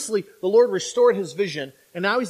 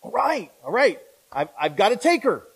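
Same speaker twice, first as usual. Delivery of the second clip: excited. Retold or imitated. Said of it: "You're kind of excited".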